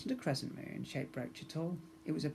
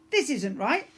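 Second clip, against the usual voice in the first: put-on boy protesting; 10 semitones higher, 7 dB louder than usual.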